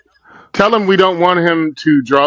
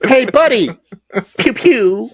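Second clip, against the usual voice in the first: mock tough guy; 7 semitones higher than usual. Mocking tiny gun shots.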